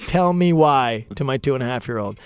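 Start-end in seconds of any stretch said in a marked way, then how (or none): 0.1-1.1 slow, patient mock-mom coaxing; imitating wife. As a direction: draw it out like a calm parent asking nicely. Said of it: "I've heard my wife say".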